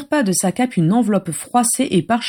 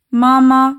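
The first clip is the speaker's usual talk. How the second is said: put-on high, louder little-child voice; high-pitched baby babble; babbling toddler; 6 semitones higher, 5 dB louder than usual. A narrator's reading. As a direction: chirp it out like a two-year-old. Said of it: "gazouilla Nymphadora".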